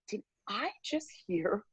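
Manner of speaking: retold incredulous question; incredulous challenge. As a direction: act out stunned disbelief, drawing out the opening words. Retold stunned challenge to the woman.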